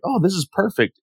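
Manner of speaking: high delighted gasp; thrilled girl voice; delighted squeal. Retold or imitated. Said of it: "she's like".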